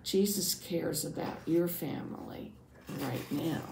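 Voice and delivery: animated first-person storyteller; measured read-aloud with lively character quotes; storytelling narration. A narrator's reading. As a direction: tell a Bible story to children, expressively. Reads first-person Bible story as Jairus.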